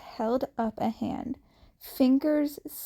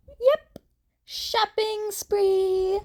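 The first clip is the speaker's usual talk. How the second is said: cheering; 10 semitones higher, slower than usual. A narrator's reading. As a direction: cheer it with glee. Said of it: "Uraraka cheered".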